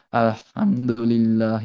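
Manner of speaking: slow, laboured আলহামদুলিল্লাহ, every sound drawn out; overly careful recitation. Shown as a demonstration. Teacher recalls his childhood prayers, slow laboured recitation. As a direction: drag আলহামদুলিল্লাহ out syllable by syllable. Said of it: "এরকম করতে করতে করতে করতে".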